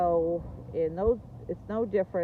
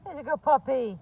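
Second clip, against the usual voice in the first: put-on talking to a baby; 12 semitones higher, much slower than usual. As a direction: coo gently at the puppy. Cooing at the puppy.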